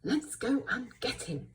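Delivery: small but determined rallying cry. Shown as a demonstration. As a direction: really say it, like an exclamation.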